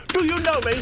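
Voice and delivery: high-pitched, daft crank voice; mock lunatic. Imagining a nut job's questions, mock lunatic voice. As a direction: ask it like a baffled oddball, up high. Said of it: "someone who types like that".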